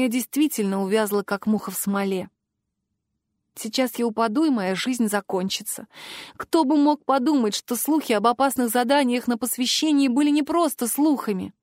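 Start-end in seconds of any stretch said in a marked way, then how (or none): none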